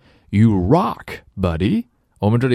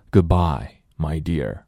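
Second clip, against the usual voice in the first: wistful farewell; 3 semitones lower than usual. Shown as a demonstration. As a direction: let "dear" fade away sadly. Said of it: "挺伤感的一句话".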